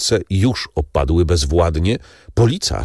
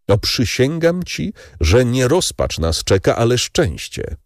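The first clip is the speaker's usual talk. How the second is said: fervent vow; 5 semitones higher than usual. Acted. Morel swears to Valentin.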